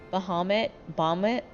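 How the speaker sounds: Bahamut said two ways, each lifted at the end; childhood pronunciation of Bahamut. Shown as a demonstration. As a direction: try out old sayings of Bahamut. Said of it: "I used to call".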